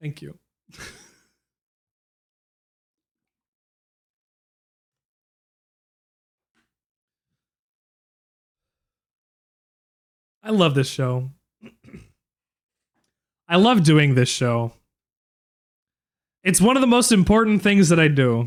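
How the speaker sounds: choked-up, emotional, grateful tone. Host thanking the audience and saying how much the show means, choked up. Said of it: "I'm getting really choked up".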